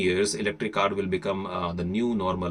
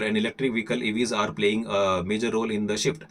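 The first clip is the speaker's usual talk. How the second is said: faster reading; faster than usual. Shown as a demonstration. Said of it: "this time I will be a little faster".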